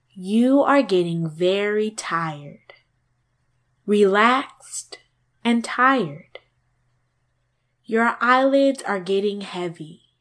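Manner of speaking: gentle, soothing, insistent and slow; hypnotist. Acted. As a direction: lull them to sleep, gently insisting. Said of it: "gentle, soothing, and insistent".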